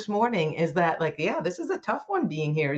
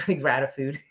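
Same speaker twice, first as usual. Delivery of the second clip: laughing; 3 semitones lower than usual. Shown as a demonstration.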